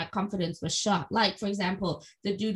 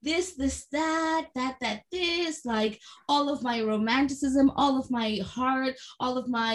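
self-mocking gush; 5 semitones higher, slower than usual. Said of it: "mocking her own romantic letter".

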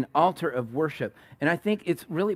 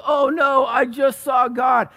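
higher, louder, slow terrified cry; panicked shout; 9 semitones higher, 6 dB louder, slower than usual. Acted. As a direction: shout it out as a man who just saw God. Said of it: "Gideon freaks out".

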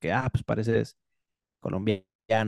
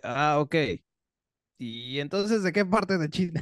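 higher, oblivious repeat of the question; clueless follow-up; 3 semitones higher than usual. Retold or imitated. Mocking the host who ignores the answer, higher clueless tone. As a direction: ask again as if nothing was heard. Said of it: "Y de repente".

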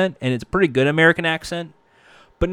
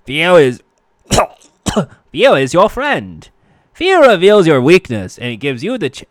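louder hammed-up Elmer Fudd read; a hint of Elmer Fudd, pushed louder; 6 dB louder than usual. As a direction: slip back into a cartoon Fudd. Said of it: "that's so fucking Elmer Fudd".

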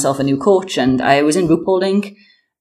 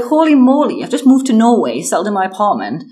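high, loud holy moly; retold frazzled excitement, fading at the end; flustered panic; 6 semitones higher, 5 dB louder than usual. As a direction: blurt it out, overwhelmed. Panicked at sudden move.

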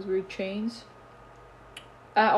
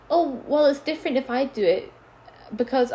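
mock whiny excuse; 4 semitones higher, 4 dB louder than usual. Mocking the girl's excuse.

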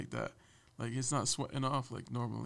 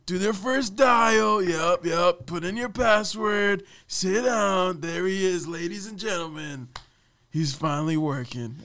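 loud, high barked orders; bossy boss voice; 8 semitones higher, 9 dB louder, slower than usual. Retold or imitated. Boss ordering employee on a call, loud hammed-up commands. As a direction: order him around like a movie boss. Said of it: "He's like".

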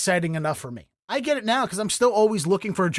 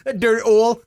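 mock Dundalk accent; 4 semitones higher, 5 dB louder than usual. Echoing the Dundalk customer bit.

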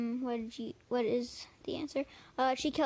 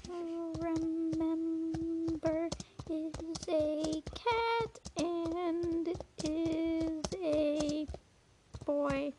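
teasing laugh; 5 semitones higher, much slower than usual. Retold or imitated. Slowly repeats partner's answer, amused.

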